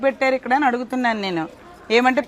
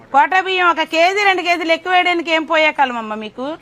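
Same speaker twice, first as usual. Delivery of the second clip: raised, heated telling-off of the cooks; angry scolding. Real, not acted. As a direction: scold them hard, voice pushed up with anger. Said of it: "నేను ఎంత బాధపడితే ఇలా మాట్లాడుతానో".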